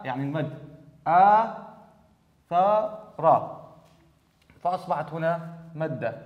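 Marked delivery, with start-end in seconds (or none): 1.1-3.7 very slow stretched reading; drawn-out word. Shown as a demonstration. Teacher to pupils, slow stretched demo reading. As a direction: stretch each sound for the class.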